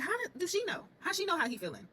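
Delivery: hammed-up jealous girlfriend; mocking Zariah. Vlogger mimicking Zariah's jealous outburst, mocking and whiny. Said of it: "'cause she's like".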